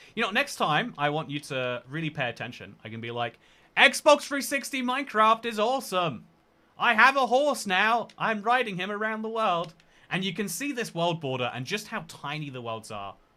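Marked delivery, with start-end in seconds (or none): 3.8-9.7 loud, raised yelling voice. Showing chat how an announcement would sound: yelling voice. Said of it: "I'll do it in a yelling voice".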